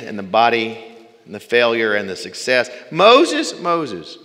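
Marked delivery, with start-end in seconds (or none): 2.9-4.2 first Moses called out high and loud, second falls back; ringing call, then a falling echo; divine call. Pretend. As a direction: call the name out from heaven. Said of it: "Why did he say it twice?".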